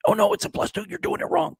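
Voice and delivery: very high, thin-voiced imitation of a heckler; mock nitpicker. Mimicking rules-correctors at the table.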